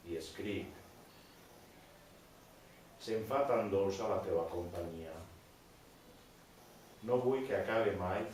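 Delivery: measured poem recital with long pauses; poem reading. Acted. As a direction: read it line by line, letting each one settle. Reads own poem aloud.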